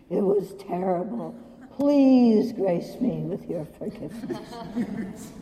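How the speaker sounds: hammed-up slow pleading with laughter; a lightly voiced repentant monk, slow; mock groveling monk. Monk on the floor begging forgiveness, mock pleading. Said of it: "lying on the ground here saying".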